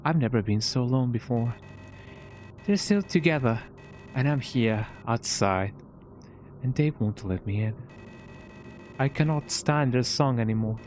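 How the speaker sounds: hammed-up British accent for a game character. Gamer voicing a lonely character's lines, mock British accent. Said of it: "my, my British accent".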